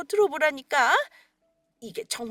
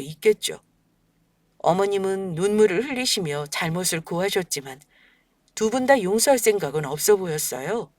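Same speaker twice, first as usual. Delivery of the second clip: lower, even storytelling voice; story narration; 7 semitones lower than usual. A narrator's reading. Daughter-in-law tells listeners what happened after the bank, in a calm low narration. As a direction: recount it calmly, looking back.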